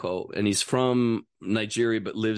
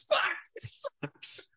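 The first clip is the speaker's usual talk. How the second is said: retold misery; 7 dB quieter than usual. Retold older flyer hating flights.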